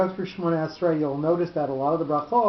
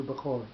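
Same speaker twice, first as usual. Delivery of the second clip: Bechori stressed on CHO, be-CHO-ri; changed pronunciation; 3 semitones lower, 7 dB quieter, faster than usual. Shown as a demonstration. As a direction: put the accent on the middle syllable of Bechori. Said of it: "is going to change its pronunci".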